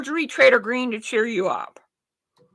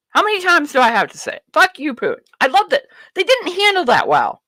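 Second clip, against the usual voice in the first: ordinary delivery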